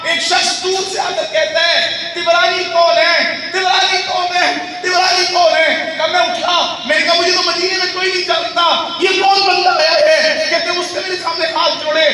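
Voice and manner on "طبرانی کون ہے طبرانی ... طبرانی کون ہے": calling out across a crowd, drawn out. Acted. Stranger searching the mosque, calling out for Tabrani. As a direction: shout the name as if searching from afar.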